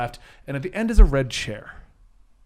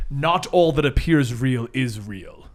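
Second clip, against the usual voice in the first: slow, ominous pronouncement; cryptic Doctor Fate; 3 semitones lower, slower than usual. Acted. Doctor Fate warning the heroes as the portal closes, slow and ominous. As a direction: lay the riddle down slowly. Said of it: "Doctor Fate says".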